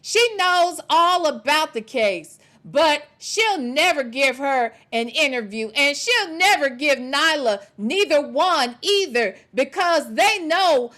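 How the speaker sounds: slow, deliberate reading with punched words; measured, emphatic message read; emphatic read-aloud. Acted. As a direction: read it out slowly, driving each point home.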